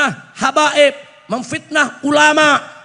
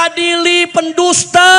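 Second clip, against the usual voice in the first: retold crowd shout; 4 semitones higher than usual. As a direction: mimic protesters calling out, pitch raised. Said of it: "Orang lagi teriak di mana-mana". (menirukan yel-yel massa dengan suara tinggi)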